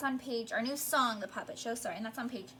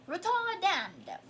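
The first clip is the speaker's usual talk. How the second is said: higher, drawn-out mock British accent; attempted British accent; 5 semitones higher, slower than usual. Shown as a demonstration. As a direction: have a clumsy go at a British accent. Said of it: "say it in a British accent".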